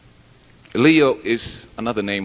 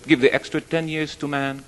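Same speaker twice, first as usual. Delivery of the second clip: higher-pitched, lightly acted protest; imitated refusal, pitched up; mock objection; 6 semitones higher than usual. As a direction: object mildly in a raised pitch. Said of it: "Donkey objected".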